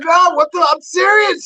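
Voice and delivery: high, loud insistence; mock protest. Himself insisting to his agent, loudly. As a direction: swear you're serious.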